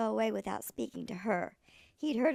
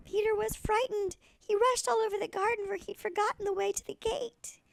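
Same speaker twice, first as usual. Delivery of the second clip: rising urgent storytelling; excited; 7 semitones higher, 3 dB louder than usual. A narrator's reading. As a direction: quicken with the chase. Peter chased by Mr McGregor.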